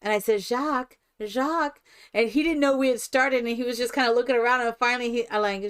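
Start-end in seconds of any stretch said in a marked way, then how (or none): 0.4-1.8 mock-French "Jacques", second one higher; mixed foreign accent. Calling the sign holder, mixed foreign accent. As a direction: call out "Jacques" in a light European accent. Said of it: "my accent is a cross between".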